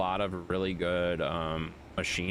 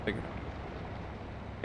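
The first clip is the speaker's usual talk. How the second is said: breathy whisper, very slow; slow exasperated whisper; 7 dB quieter, much slower than usual. Real, not acted. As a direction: hiss it out slowly. Scolding chat.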